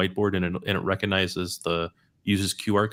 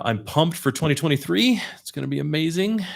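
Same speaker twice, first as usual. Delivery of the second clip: upbeat, higher and eager; excited; 7 semitones higher, 3 dB louder than usual. Real, not acted. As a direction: sell the big hype. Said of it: "You're super excited".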